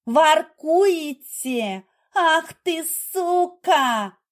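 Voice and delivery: very slow, high, loud insult; wife screaming at the secretary; furious yell. A narrator's reading. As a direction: spit the insult out in rage. Jealous wife attacks rival.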